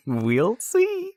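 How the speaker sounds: high laughing taunt. Pretend. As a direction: laugh it out smugly. Teasing after winning debate.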